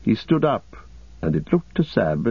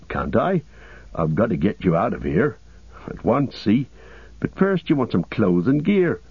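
a hint of a loyal, practical servant; understated character voice with lilting pitch; lightly voiced Sam. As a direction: lightly play a humble hobbit taking charge. Voices Sam taking charge.

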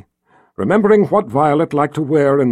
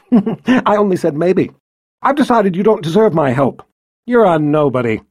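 cold queen; 3 semitones higher than usual. Acted. Violet betraying Rachel.

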